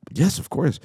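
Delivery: high, loud, instant yes; retold thrilled agreement; eager acceptance. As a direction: jump at the offer.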